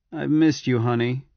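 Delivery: flatly, feeling held back. Acted. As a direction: say it with no warmth showing. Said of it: "he said flatly".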